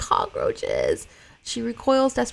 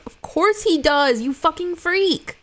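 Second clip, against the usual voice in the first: higher, louder, slow sneer; mocking aside; 10 semitones higher, 5 dB louder, slower than usual. Real, not acted. Reader mocking the boy in the script, higher sneering aside. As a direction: sneer at the character.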